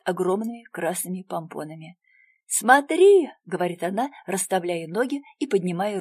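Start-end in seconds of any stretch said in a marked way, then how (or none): 2.5-3.3 восторженно. A narrator's reading. Хвастливая девочка.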